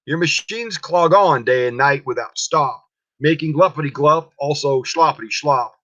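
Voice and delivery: a lightly voiced, scolding Lorax; Lorax with his dander up. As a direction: lecture the Onceler about his mess, annoyed. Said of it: "his dander was up".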